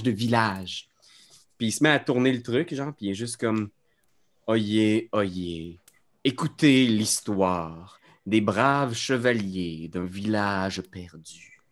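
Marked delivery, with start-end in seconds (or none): 4.5-11.6 slow, proclaiming town crier call. Acted. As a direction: announce it like a herald, slowly. Clown opens his tale with oyez.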